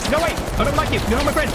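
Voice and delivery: put-on high petulant childish voice; childish whine. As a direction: sulk at them like a child, pitched high. Petulant at game enemy.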